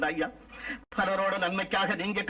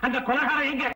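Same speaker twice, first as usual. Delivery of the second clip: higher-pitched, insistent repeated demand; angry shouting; 3 semitones higher than usual. Acted. Enraged father demands the murderer a second time, shouting. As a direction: push the demand up into an angry cry. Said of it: "ஏன் இப்படி கத்துற".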